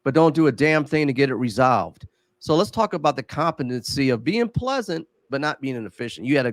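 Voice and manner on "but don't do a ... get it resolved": sugary overcompensating. Retold or imitated. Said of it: "people overcompensate with".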